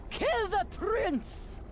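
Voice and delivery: high, slow commanding yell; furious shout. Acted. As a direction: bellow the order to kill. Villain orders her pet to kill.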